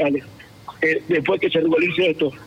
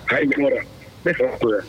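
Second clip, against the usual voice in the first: real hoarse, lowered voice; 4 semitones lower than usual. Real, not acted. Caller giving his name to the radio host, hoarse. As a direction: give it with a voice worn out from yelling. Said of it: "Usted se ha quedado ronco".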